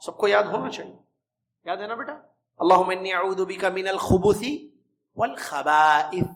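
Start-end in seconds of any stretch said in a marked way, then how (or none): 2.6-6.2 slow, careful recitation of the prayer, اللہم drawn out and stressed, louder; teacher's slow, deliberate recitation. Shown as a demonstration. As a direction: recite it word by word so children can follow. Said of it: "چھوٹی سی پیاری سی دعا ہے".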